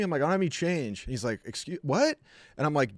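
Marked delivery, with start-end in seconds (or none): 0.2-1.0 higher, repeating I don't have any change over a barking dog; raised over barking. Retold or imitated. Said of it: "he couldn't hear over Clue barking". 1.4-2.2 straining to hear. Retold or imitated. Man can't hear over barking.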